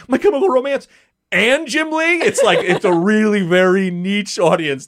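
thrilled fan gushing; excited. Real, not acted. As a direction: rave about it like a fan. Geeking out over niche combo.

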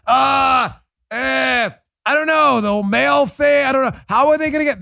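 mock lawyer with no answer, stammering in panic; flustered lawyer. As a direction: play the caught-out government lawyer, stumbling. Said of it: "have a tough time in court".

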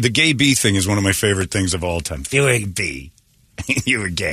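low, rasping Fierstein impression; lightly done gruff Fierstein voice; Harvey Fierstein impression. Host doing his Fierstein bit for the guest, low impression. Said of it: "So you would do Fierstein".

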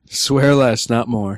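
lightly put-on announcer. Shown as a demonstration. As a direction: read it as a crisp rule announcement. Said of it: "I'm using my announcer voice".

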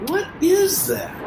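reliving the shock of an unseen roar; alarmed. Retold or imitated. Guide hearing a plane roar closer, asks high and startled. Sound growing louder, alarmed.

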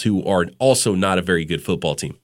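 usual speaking voice

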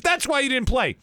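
high, loud mock coach. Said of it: "He goes".

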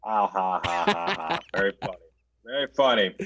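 deadpan mock laughter at a jab; a dry mock ha ha ha; sarcastic fake laugh. Real, not acted. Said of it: "I get it".

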